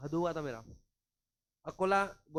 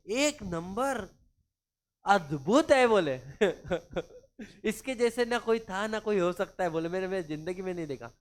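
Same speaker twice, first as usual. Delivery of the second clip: overdone sarcastic recommendation; sarcastic praise; 6 dB louder than usual. Retold or imitated. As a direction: lay it on thick with fake admiration. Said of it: "sarcastic वे में बोला".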